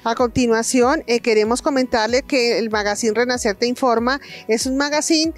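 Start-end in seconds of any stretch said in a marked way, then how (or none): none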